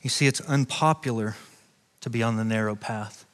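low, soft, confiding storytelling; hushed testimony. Acted. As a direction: draw them in close with a hushed voice. Intimate personal testimony, hushed.

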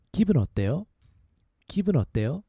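기분 어때요 run together at natural speed. Shown as a demonstration. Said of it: "A little faster".

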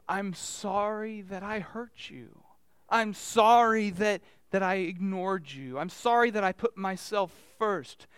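slow, heartfelt apology; sincere apology. Shown as a demonstration. Person truly apologizing to someone they hurt, slow and sincere. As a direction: apologize slowly and really mean it. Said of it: "We are supposed to".

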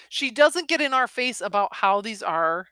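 usual speaking voice

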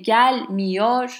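gelmiyor said slowly, weight on GEL; teacher's slow demo of GEL-miyor; stress on first syllable. Shown as a demonstration. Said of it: "then that gel is".

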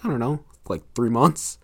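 soft, unsure mock confession; understated, hesitant answer; imitated hesitant admission. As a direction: admit it reluctantly, in character. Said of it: "And she's been like".

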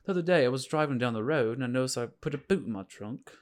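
lightly put-on British, lilting like questions; questioning British accent. Shown as a demonstration. Trying British for friends, accent as if asking questions. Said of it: "it's almost like you're asking questions".

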